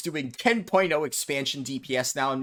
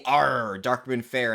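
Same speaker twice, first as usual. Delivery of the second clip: pirate voice; slower than usual. Retold or imitated. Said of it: "I felt like doing a pirate voice".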